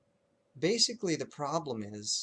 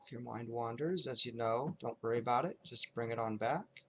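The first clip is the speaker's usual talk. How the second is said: unhurried noting with long silences between phrases; lightly hushed, measured meditation guiding; guided meditation; 4 dB quieter than usual. Shown as a demonstration. Teacher leading students in zero-to-five noting, calm guided meditation.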